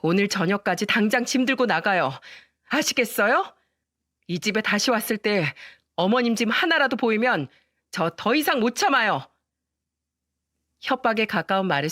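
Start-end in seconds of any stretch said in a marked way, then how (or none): 0.0-9.3 mildly firm and resolute; understated stern ultimatum. Acted. Wife ordering her mother-in-law out, firm. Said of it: "단호한 목소리로".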